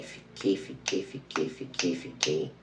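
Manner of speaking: fading repetition. Real, not acted. Waiting drawn out.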